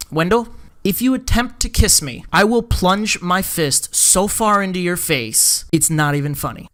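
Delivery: mild retold annoyance, sinking in pitch; very annoyed. Teller warning Wendell off a kiss, mildly annoyed. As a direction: imitate a firm, annoyed warning. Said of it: "looking at him very annoyed".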